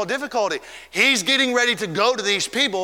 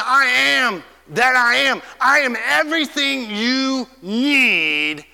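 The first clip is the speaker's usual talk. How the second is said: voice of God; 4 semitones higher, 3 dB louder, slower than usual. Acted. Preacher voicing God's declaration.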